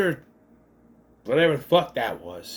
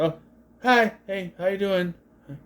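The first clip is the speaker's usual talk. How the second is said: mock breezy villain; 3 semitones higher than usual. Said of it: "It doesn't say all that, but I'm just".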